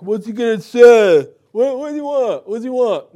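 loud, hammed-up heckling; mock irreverent yelling. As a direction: yell it like a rude, impatient oaf, exaggerated. Mocks people not taking it seriously.

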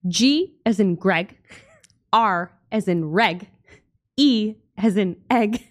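slow, deliberate spelling. Retold or imitated. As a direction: spell it out slowly. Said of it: "and you said".

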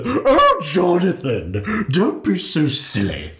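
high, laughing, drawn-out Jonathan; put-on Irish lilt, teasing; mock posh Irish. Imitating Mare to her co-host in a laughing Irish accent. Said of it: "That's not what she sounds like".

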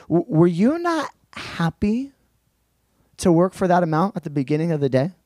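lightly voiced master, coaxing and puzzled; a hint of a hurt employer asking why; master pleading. Master coaxing grumbling workers, lightly voiced. Preacher voicing the master's reply.

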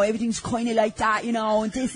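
imitating a Dublin accent; mock Dubliner chatter; a Dublin accent, lightly put on. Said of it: "And then you have the dubs".

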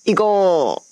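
high, loud "let's go"; rally the co-host, fired up; loud, high rallying call; excited cheer. Real, not acted. Cheering the start.

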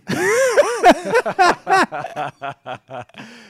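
loud high laugh; burst of laughter. Real, not acted. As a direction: crack up laughing. Big laugh.

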